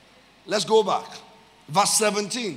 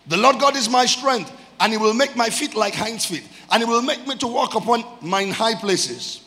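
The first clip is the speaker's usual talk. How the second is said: raised, ringing scripture reading; scripture declamation; 3 semitones higher, 4 dB louder than usual. Real, not acted. Preacher reading out God as his strength, scripture declamation. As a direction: proclaim the verse to a congregation.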